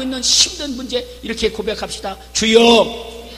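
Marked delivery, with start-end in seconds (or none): 2.3-3.3 louder cry of Lord; 큰 소리로 주여. Shown as a demonstration. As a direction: call out to the Lord. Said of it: "큰 소리로".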